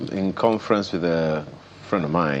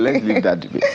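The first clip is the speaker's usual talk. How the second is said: laughing. Real, not acted. Host drops the debate laughing.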